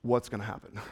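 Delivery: hushed, very low wondering; crowd in suspense. Acted. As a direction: drop right down, as an awed onlooker. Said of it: "the whole crowd is just like".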